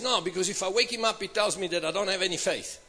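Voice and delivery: grumbling refusal. Acted. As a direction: refuse under your breath, hurriedly. Peter refusing to wake Jesus.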